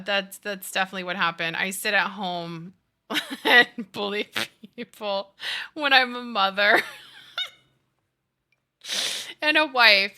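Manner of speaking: mock confession breaking into laughter; sarcastic agreement. Daughter answers mom's silly suspicion, sarcastic and laughing. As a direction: retell a sarcastic admission, cracking up midway. Sarcastic reply to mom, cracking up.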